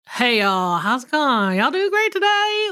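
run-together Southern greeting, rising at the end; lazier Southern accent. Shown as a demonstration. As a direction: slur the words lazily in Southern accent. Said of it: "It's less choppy".

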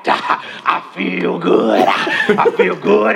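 shouting preacher cadence; hammed-up sermon shout; mock preaching. Imitating Reverend Brown sermon.

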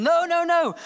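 mock protest. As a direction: cut in with a shouted no, no, no.

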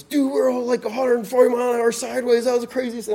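high-pitched, gushing friend voice; imitated freaking out. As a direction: mimic a buddy losing it with excitement. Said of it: "he's just freaking out".

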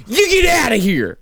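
southern accent demo. Shown as a demonstration. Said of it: "then you say".

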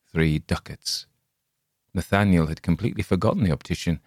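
ordinary delivery, nothing marked

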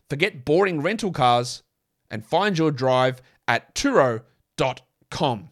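measured sponsor read with punched key words. Real, not acted. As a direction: read it out like a podcast advert. Reads the sponsor ad.

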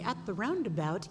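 mock English GPS voice; English accent. GPS voice in English accent, lightly imitated. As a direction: lightly do a British sat-nav. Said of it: "in an English accent".

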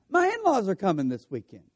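a quick, bright first reading of the text; eager reading. Shown as a demonstration. Preacher showing one reading of a text message, eager. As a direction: read it like happy news you can't wait to share. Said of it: "taken in two different ways".

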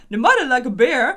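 exaggerated Scottish accent, loud. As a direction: ham up a thick Scottish accent. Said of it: "so einen übertriebenen schottischen Akzent".

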